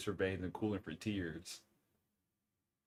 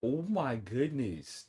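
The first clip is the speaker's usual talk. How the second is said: slow drawn-out disbelief; 4 semitones higher, much slower than usual. Real, not acted. Reacting to chat meme.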